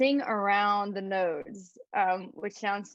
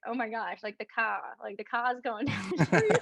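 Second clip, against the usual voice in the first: mock Boston accent. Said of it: "they didn't pronounce their R's".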